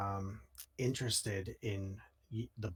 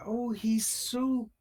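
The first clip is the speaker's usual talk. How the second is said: high, slow, squealing delight; high giddy squeal over a creepy toy; 12 semitones higher, 4 dB louder, slower than usual. Acted.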